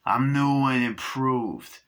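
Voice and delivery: a hint of a toy doll voice; talking doll voice. New doll boasting to Chucky, lightly voiced toy. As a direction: sound like a proud new toy. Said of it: "He's like".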